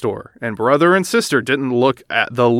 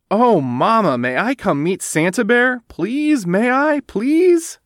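pleading little cub; 9 semitones higher, slower than usual. Acted. Little cub begging her mother to meet Santa, high pleading voice. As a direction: beg like an eager little girl.

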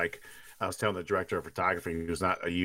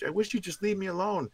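high-pitched imitation of an upset girl; mock girl's high plea; imitating Tina; 12 semitones higher than usual. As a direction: quote her plea in a raised, higher voice. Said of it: "when she falls back and she's".

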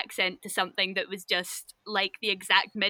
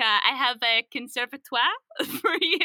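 mock French accent, breaking into laughter; put-on French accent; 2 semitones higher than usual. Trying to sell conservatories in France, in a fake French accent. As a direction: imitate a salesman faking French, amused. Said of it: "putting on a really French accent".

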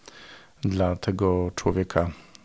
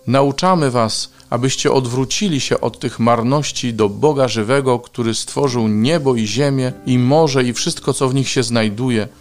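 raised, emphatic reader's proclamation; crying out to crowd; 4 semitones higher, 8 dB louder than usual. A narrator's reading. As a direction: project an urgent appeal, loudest at the start. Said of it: "krzycząc". (donośne wołanie do tłumu)

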